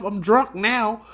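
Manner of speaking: tipsy laughing shout; laughing drunk. Retold or imitated. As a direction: blurt it out laughing.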